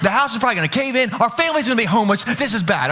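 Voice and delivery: mock panic, worries piling up quickly; hammed-up, breathless-paced list of disasters; freaking out. Pastor retelling his worry over damaged siding, mock freak-out. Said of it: "so I start freaking out".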